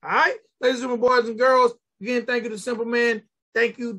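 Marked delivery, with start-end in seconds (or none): 0.6-1.7 fast showman announcer call; grand entrance announcement. Acted. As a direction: announce it like a ringmaster. Show outro announcement.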